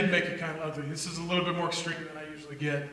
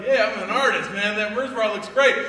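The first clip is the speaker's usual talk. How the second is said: smug artist; 2 semitones higher, 6 dB louder than usual. Retold or imitated. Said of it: "You're like".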